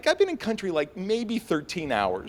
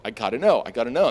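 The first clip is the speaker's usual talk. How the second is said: urgent inner voice; 6 dB louder, much faster than usual. Retold or imitated. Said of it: "it was like".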